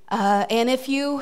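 short of breath, pregnant; breathless and winded; wheezy voice. Real, not acted. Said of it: "I really can't catch my breath".

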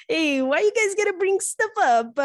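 high, loud whine of protest; why do you bring that up, yelled in mock outrage; high playful protest at being teased; mock outraged shout. Real, not acted. Teased about old dating.

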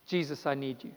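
a hushed, humble plea; soft prayer. Retold or imitated. Preacher voicing a believer's surrender, hushed and humble. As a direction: pray it quietly, giving up.

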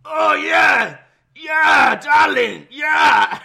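hammed-up high shouts of ecstasy; mock climax. French singer at the record's end, mock orgasmic shouting. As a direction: shout it like a lover in mock throes of passion. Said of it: "he s-, basically comes at the end of the record".

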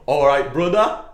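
hammed-up Jamaican greeting, pushed loud; mock Jamaican accent. Imitating a friend on the podcast, mock Jamaican accent. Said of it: "and Declan saying".

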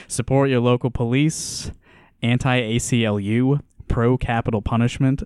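put-on barely-there Georgia accent, half-hearted; a little Georgia accent. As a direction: lean lightly into a Georgia accent. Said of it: "Maybe I will do the accent a little bit".

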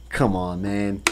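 usual speaking voice

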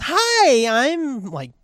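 a hint of a chirpy caller, starting high; lightly voiced sales lady; imitating caller. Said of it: "it's this broad's voice".

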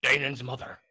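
a lightly voiced old man spinning a crude recipe; smug old storyteller, lewd and unhurried; a hint of a crude old man; Nixon. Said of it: "Nixon's gonna tell you".

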